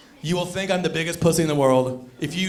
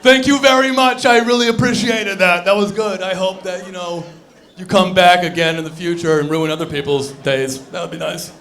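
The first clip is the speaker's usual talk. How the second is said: sarcastic thanks; 4 dB louder than usual. Acted.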